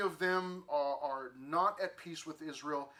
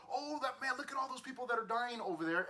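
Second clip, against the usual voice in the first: mock indifference; 6 semitones higher than usual. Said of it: "the attitude can kinda be like".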